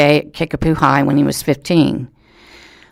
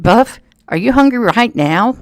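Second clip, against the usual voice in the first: high, disbelieving ask; can't believe he's eating here; incredulous question; 7 semitones higher than usual. Retold or imitated. Reporter asks the deputy eating Cheerios, high incredulous. Deputy eats cereal at crime scene.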